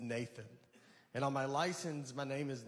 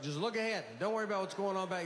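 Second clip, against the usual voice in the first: coaxing horse; 5 semitones higher, faster than usual. Retold or imitated. Blinders talking to the horse, mock coaxing. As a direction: soothe the horse into looking ahead.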